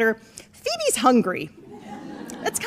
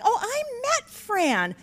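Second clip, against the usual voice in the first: lightly voiced high, sweet gushing; a hint of a fond elderly woman raving; a touch of a chatty driver praising Fran; gushing older lady; 9 semitones higher, 3 dB quieter than usual. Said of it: "and she's like".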